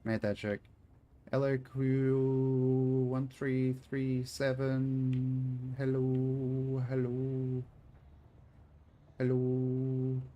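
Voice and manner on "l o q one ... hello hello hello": slow, spelled-out alien voice saying hello; mock robot greeting. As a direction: play a machine learning human speak. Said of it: "it's polite in human speak".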